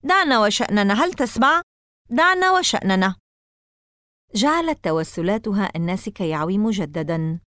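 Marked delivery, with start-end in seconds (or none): 0.0-3.2 high, loud desperate plea; pleading scream. A narrator's reading. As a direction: beg him to stop. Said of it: "صرخت فيه كيسي".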